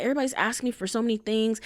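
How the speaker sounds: quick imitated whine; whining. Imitating her complaints about work demands, whining. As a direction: mimic an overwhelmed complainer, rattled off. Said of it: "kinda, like, whining and just being like".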